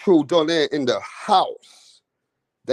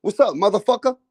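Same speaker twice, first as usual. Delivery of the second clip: mock American; 4 semitones higher, faster than usual. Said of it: "Americans use the motherfucker word".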